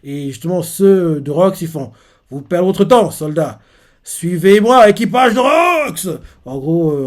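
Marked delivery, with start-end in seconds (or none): 2.3-6.1 high, loud call to his crew; rally the crew as you storm in; rallying shout. Retold or imitated. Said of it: "Rox crie ça". (Rox crie pour rallier son équipage)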